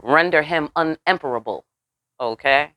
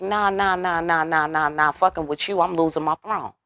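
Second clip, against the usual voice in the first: mock refusal; 2 semitones higher than usual. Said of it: "He is like".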